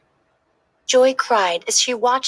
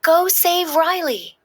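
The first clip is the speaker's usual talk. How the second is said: cheering; 8 semitones higher, slower than usual. Acted. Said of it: "Bing Bong cheered".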